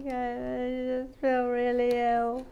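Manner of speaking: a quick go at her voice; lightly put-on friend's voice; imitating Gillian B. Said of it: "I was trying to sound like".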